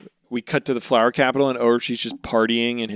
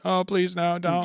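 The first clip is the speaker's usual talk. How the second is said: higher, pleading mock whimper; whimpering coward; 7 semitones higher than usual. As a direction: play the cowardly villain begging for mercy. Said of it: "like, crying immediately".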